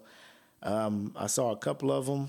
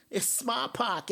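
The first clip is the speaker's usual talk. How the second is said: higher, slow mock Boston accent dropping the r; imitating a Boston accent, stretching it out; 9 semitones higher, slower than usual. Vlogger mocking the ad's actors in a Boston accent. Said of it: "y'all are doing Boston accents".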